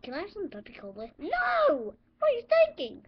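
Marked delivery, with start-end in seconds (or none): 1.2-3.0 angry shout. Acted. Teacher scolds student over Pepsi.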